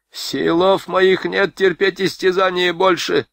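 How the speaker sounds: high, slow whining complaint; the sergeant whimpering to his captain. A narrator's reading. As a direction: whine it like a hurt child. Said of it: "захныкал Назаренко".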